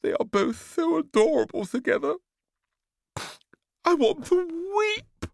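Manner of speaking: very high, emotional father voice; Papa gushing. Acted. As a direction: announce it near tears. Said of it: "announced Papa".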